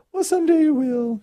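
imitating mother. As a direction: put on a sweet high coaxing mom voice. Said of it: "She talked like that".

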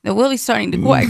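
R's turned to W's, "really" as "Willie's"; imitated speech impediment. Woman making small talk with a customer, imitated speech impediment. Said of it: "she has a speech impediment".

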